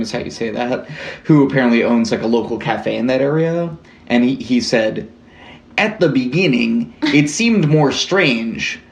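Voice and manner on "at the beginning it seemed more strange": hammed-up Canadian accent; bad Canadian accent. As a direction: put on a poor Canadian accent. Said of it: "Canadian accent".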